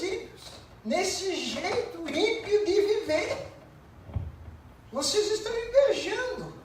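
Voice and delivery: high, urgent sermon voice; fervent preaching. Acted. Pastor exortando a congregação, pregação inflamada e aguda. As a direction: press the flock with pleading zeal. Preacher builds to full force.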